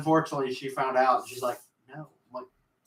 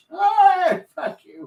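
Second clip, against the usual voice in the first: put-on crotchety old man voice, very high-pitched and loud; 5 dB louder than usual. Acting out the grandpa snapping back after being corrected: grumpy old man voice. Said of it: "sound like an old man".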